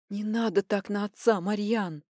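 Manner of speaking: ordinary delivery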